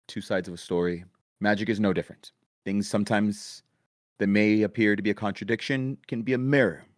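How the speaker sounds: booming announcement to the crowd; a proclamation over the whole arena; magically amplified voice. Acted. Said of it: "magically amplified voice".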